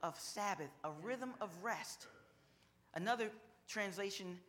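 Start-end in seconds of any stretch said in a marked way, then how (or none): 0.0-2.1 louder, higher preacher's call; preaching at full force. Acted. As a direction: drive the point home to the congregation. Preaching climax after the psalm.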